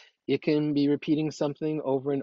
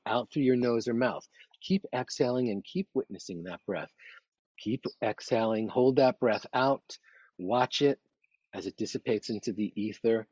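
guided meditation. Acted. Leads a breathing meditation.

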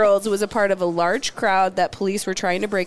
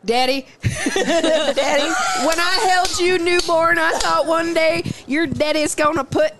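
sentimental son; 5 semitones higher than usual. Pretend. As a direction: gush like a doting child. Voicing the son to dad.

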